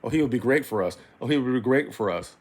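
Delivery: mocking imitation. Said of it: "she always is saying".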